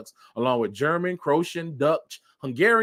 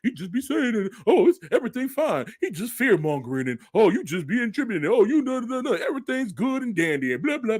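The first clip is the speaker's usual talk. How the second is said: lightly voiced dismissive skeptic, pitched up; mocking the doubters; 5 semitones higher than usual. Mocking people who say everything is fine. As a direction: brush it off in a mocking higher voice. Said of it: "I know people".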